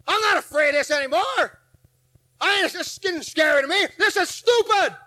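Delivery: scoffing inner voice. Retold or imitated. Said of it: "I thought to myself".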